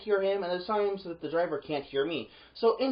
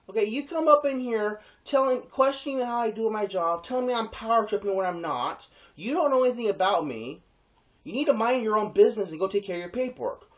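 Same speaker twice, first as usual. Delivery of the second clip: angry telling-off; 5 semitones higher, 4 dB louder than usual. Retold or imitated. Retelling telling off the trucker.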